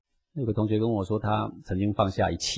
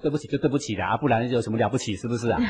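defiant retort; 5 semitones higher, 5 dB louder than usual. Retold or imitated. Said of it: "我说".

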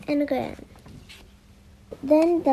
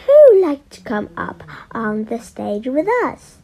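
loud call to the audience; 8 dB louder than usual. A narrator's reading. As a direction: call out to the whole theatre. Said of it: "she called out".

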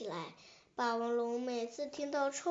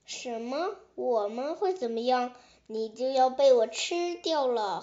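menacing threat; 6 dB louder than usual. Acted. Tyrannosaur threatens to eat baby.

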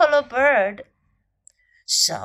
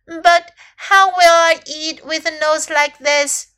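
higher, loud, mildly plaintive question; crying out; 4 semitones higher, 7 dB louder than usual. A narrator's reading. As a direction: complain as an upset little elephant. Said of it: "cried Little Elephant".

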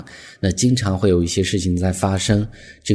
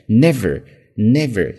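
NEVER drawn out with a raised tone; teacher modelling a stressed never; emphasised NEVER; 3 semitones higher than usual. Shown as a demonstration. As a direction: stretch and lift never for emphasis. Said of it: "继续强调".

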